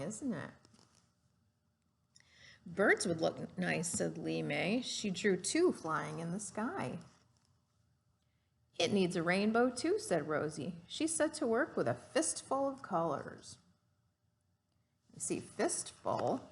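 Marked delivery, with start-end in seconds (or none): 2.6-13.6 lively storybook read-aloud; gentle classroom story voice; reading to children. Acted. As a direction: read it like a picture book to a class. Teacher reads picture book aloud.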